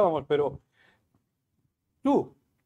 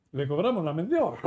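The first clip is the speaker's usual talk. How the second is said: laughing. Real, not acted. Laughing at own joke.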